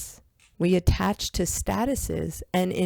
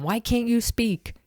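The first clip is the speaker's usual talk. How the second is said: higher-pitched imitation of scolding; mock yell; 6 semitones higher than usual. Young teacher to little cousins, mock yelling. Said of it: "I would yell at them".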